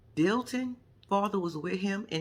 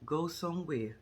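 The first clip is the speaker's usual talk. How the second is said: low threat; 4 semitones lower, 5 dB quieter than usual. Retold or imitated. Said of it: "I was like".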